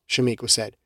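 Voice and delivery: ordinary delivery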